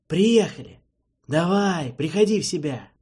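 loud, brusque, shaking him awake; rough wake-up call. Acted. Archi rousing a groggy prisoner, loud and brusque. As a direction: bark him back to his senses. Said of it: "неласково начал будить".

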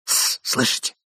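urgent hushed warning; whisper. A narrator's reading. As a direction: hiss for silence. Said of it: "прошептал молодой человек".

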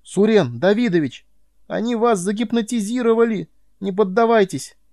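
high, loud frantic yell; boy screaming at Suren Davidovich not to give in. A narrator's reading. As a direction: scream a desperate warning. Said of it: "а я заорал".

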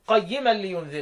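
slow recitation, with a short break after "عوجا" and no breath; slow Quran recitation with a gentle catch; recitation for Hafs. Shown as a demonstration. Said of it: "يبقى أنا هقرأ لحفص أقول إيه؟".

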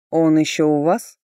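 loud, curt man's question. A narrator's reading. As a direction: fire it off abruptly. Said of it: "отрывисто спросил Ричард". (отрывистый вопрос)

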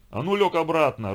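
father snarls at his son to lie down; angry growl. A narrator's reading. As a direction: roar it at him to get back down. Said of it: "рыкнул на него отец".

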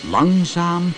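storyteller drawing out the slow motion; suspenseful slowness. A narrator's reading. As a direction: stretch "Langzaam" out, then linger on "heel langzaam". Narrator acts out slow rescue.

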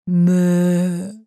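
flat, drawn-out groan; ghostly moan. A narrator's reading. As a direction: moan like a walking corpse. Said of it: "замычала я". (мычание мертвеца)

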